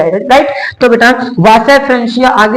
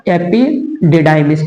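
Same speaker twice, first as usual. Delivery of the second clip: very slow term; 4 semitones lower, much slower than usual. Shown as a demonstration. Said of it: "इसको हम लोग क्या कहते हैं?".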